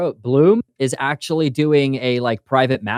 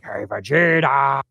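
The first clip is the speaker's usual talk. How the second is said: sidekick voice; slower than usual. Retold or imitated. Acting a sidekick.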